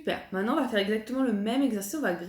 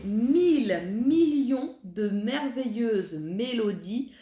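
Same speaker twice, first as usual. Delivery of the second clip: slow diction; slower than usual. Shown as a demonstration. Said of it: "la première qu'on va apprendre".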